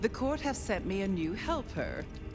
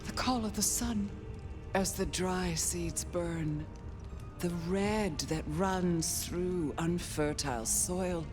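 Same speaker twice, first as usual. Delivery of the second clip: entranced. Acted. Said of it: "You saw some vision?".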